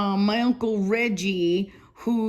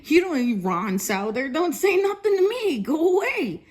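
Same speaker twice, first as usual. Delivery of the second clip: retold shout; 4 semitones higher than usual.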